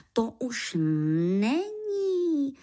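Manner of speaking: regretful cry. Acted. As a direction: lament climbing to a high, drawn-out end. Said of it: "zvolal lítostivě". (lítostivé zvolání, protažené do výšky)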